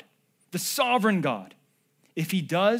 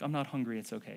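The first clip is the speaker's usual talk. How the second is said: meek quiet refusal; 6 semitones lower, 9 dB quieter, faster than usual. Retold or imitated. Mom insisting he eat.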